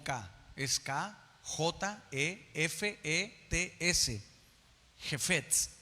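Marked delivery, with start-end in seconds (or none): 5.0-5.7 "jefetz" stressed on the second E, je-FETZ; throaty first sound in "jefetz", then a stressed FETZ; stress on final E. Shown as a demonstration. Teaching the congregation the Hebrew word, "jefetz" stressed je-FETZ. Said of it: "con acento en la E".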